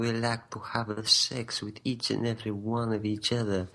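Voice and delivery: mock-romantic French accent. Co-host boasting for the romantic nation, hammed-up French accent. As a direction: ham up a French lover's accent. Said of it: "You're French".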